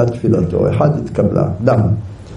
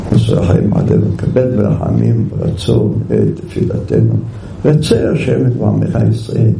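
calmly pleading; 2 semitones lower than usual. Retold or imitated. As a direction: pray patiently, with supplication. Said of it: "אומר את זה ככה בנחת".

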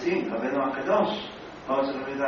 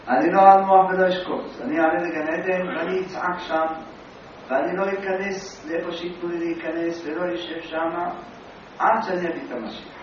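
defiant vow; 2 semitones higher than usual. Retold or imitated. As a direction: vow it like you will storm heaven. Rabbi's vow, acted defiantly.

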